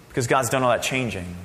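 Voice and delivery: ordinary delivery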